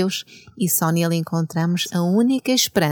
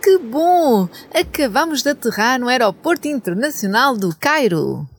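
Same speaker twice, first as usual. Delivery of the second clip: cartoon princess; 5 semitones higher than usual.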